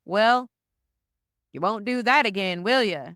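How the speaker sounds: a hammed-up, badly faked British telling-off; terrible British accent. British truck driver chiding a sorry American tourist, terrible British accent. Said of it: "That's a terrible British accent".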